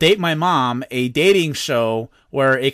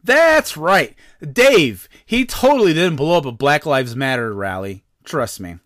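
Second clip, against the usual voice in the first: mock ad read. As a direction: wrap up the fake sponsor spot. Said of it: "I have to read another ad".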